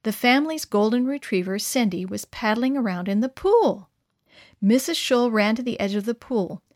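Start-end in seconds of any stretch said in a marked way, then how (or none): none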